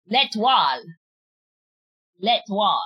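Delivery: L'Étoile said lay-TWAHL in French; careful French L'Étoile, the oi as wah; French attempt. Shown as a demonstration. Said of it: "I'm trying to say it properly".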